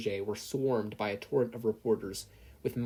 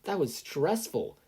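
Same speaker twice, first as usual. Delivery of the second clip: slow, higher, tired sigh; 6 semitones higher, slower than usual. Acted. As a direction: let the stress out. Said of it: "Izuku sighed".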